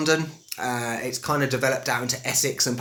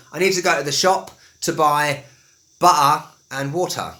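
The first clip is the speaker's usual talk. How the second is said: Estuary English, "butter" with glottal stop, "water" with T; Estuary mix of swallowed and sounded T; mixed Estuary accent; 4 dB louder than usual. Shown as a demonstration. Teacher giving a shop example, mixed Estuary accent. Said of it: "I mix it up a bit".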